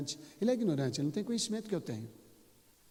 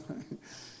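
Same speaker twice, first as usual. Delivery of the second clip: soft breathy chuckle; quiet laugh; 8 dB quieter than usual. Real, not acted. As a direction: chuckle briefly under the breath. Amused while retelling the wife's complaint.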